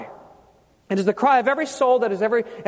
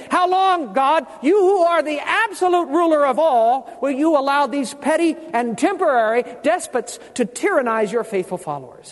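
martyrs' cry; 4 semitones higher than usual. Acted. Martyrs crying out to God.

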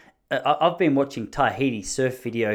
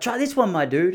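imitating the dealer; 7 semitones higher than usual. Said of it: "And he was like".

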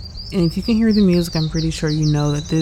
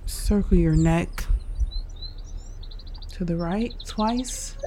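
unhurried meditation guide with long pauses; guided meditation; 4 dB quieter than usual. Real, not acted. Host guiding listeners through breathing and stretches, calm meditation delivery. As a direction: lead them calmly through each breath, leaving space.

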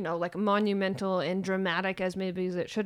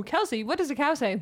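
put-on asking a baby; 6 semitones higher, 5 dB louder than usual. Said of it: "All morning I was".

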